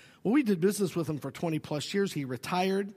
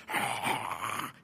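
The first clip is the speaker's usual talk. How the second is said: breathy laugh; 11 semitones lower, 4 dB quieter than usual. Retold or imitated. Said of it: "he's just laughing".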